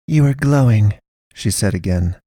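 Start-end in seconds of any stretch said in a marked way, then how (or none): 0.1-1.0 louder, insistent; firm pastoress. A narrator's reading. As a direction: state it again with weight.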